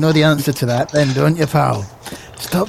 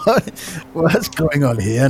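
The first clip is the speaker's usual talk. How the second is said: casual stroll; 3 semitones higher than usual. Shown as a demonstration.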